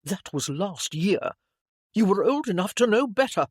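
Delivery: loud, heated sibling accusation; angry scolding. A narrator's reading. Brother to lying sister, heated scolding. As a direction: reel off the old grievance sharply.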